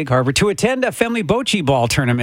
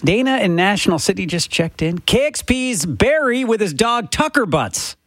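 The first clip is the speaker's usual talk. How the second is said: on-air shout-out; 4 semitones higher than usual. Real, not acted. Reads listener shout-out on air.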